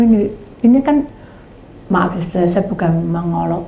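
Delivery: ordinary delivery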